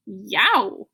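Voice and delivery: ordinary delivery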